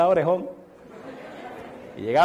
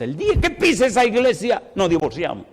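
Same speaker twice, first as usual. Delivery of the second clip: mild angry threat; 6 semitones higher than usual. Retold or imitated. Angry husband threatens wife.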